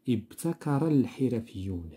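slow model reading, ابتكر الحرفيون joined as "ibtakara-l-hirafiyyun"; silent linking hamza. Shown as a demonstration. Teacher showing pupils the dropped hamza, ابتكر linked smoothly into الحرفيون. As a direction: run ابتكر straight into الحرفيون, with no glottal stop at the article. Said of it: "هنا ما قريناهاش".

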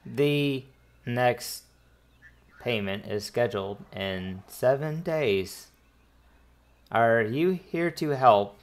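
measured, halting translator droid; lightly robotic, words spaced out. Acted. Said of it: "you hear the droid in the background".

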